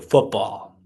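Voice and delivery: Football with a long, drawn-out Minnesota o. Shown as a demonstration. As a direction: say Football in a thick Minnesota accent. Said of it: "You wanna say football".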